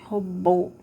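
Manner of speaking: "Robôs" with a closed, stressed ô; "Robôs" with a long closed BÔS; closed vowel. Shown as a demonstration. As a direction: round the ô tightly in "Robôs". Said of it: "é fechado".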